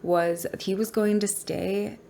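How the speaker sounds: usual speaking voice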